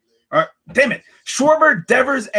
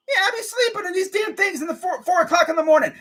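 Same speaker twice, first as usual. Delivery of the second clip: laughing complaint; 9 semitones higher than usual. Real, not acted.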